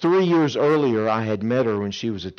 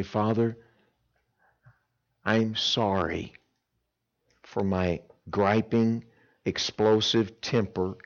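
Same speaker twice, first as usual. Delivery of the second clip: slow, humble prayer; earnest repentant prayer; slow sincere prayer. Shown as a demonstration. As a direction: pray it slowly and sincerely.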